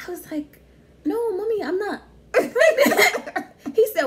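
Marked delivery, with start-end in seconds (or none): 1.1-3.4 higher, slow laughing denial; mock denial. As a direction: drag out the denial. Imitating herself denying to mom.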